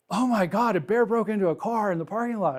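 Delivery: high, hurried excited gossip; mock excited. Another hiker telling him about the car break-in, excitedly.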